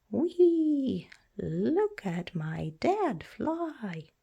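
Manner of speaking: put-on high gleeful cry of a young dragon; excited child. Young dragon cheering as dad flies, excited. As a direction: squeal it like a thrilled kid.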